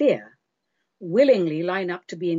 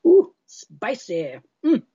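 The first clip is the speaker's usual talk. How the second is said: surprised after sip; 5 dB louder, slower than usual. Real, not acted. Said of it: "a little sip of my drinky poo".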